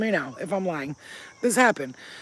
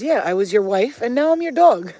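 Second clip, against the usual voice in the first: retold dream reveal; 3 semitones higher, 7 dB louder than usual. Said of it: "She goes".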